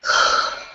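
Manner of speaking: sigh. Shown as a demonstration. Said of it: "and breathe".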